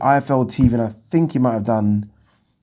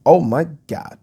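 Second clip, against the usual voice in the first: put-on, higher-pitched American accent; 6 semitones higher than usual. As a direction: say it in a mock American voice. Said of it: "doing an American accent".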